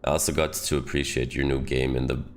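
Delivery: put-on reading a letter in British accent; best British accent. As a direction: put on your best British for a thank-you note. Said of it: "gonna give it my best British accent".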